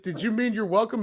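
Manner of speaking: high, amused incredulous question; laughing disbelief. Retold or imitated. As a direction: ask it half laughing. Incredulous retort to clerk.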